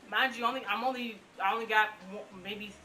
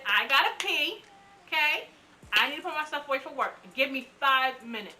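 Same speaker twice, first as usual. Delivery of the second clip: higher and louder, pressing her case fast; pleading urgently; 4 semitones higher, 6 dB louder than usual. Retold or imitated. Patient to rushing doctors, urgent higher pleading. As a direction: bargain hard for five minutes. Begging doctors for five minutes.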